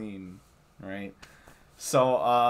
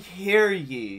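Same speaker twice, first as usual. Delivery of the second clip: raised, louder mock proclamation; town crier call; 6 semitones higher, 5 dB louder than usual. Joking about parliament, mock proclamation. Acting out House of Commons.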